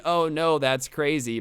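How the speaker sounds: half-hearted mock surprise; unconvincing shock. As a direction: act shocked, but not very convincingly. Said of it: "not, like, being very convincing".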